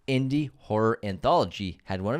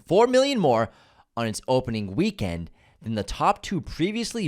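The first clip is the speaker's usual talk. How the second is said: declaimed with stretched, punched key words; hammed-up reading with swooping emphasis; theatrical review reading. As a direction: read it like a mock proclamation. Reads listener review theatrically.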